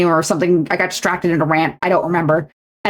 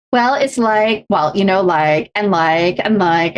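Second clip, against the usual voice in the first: put-on Valley Girl filler; slower than usual. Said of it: "I sound like a Valley Girl".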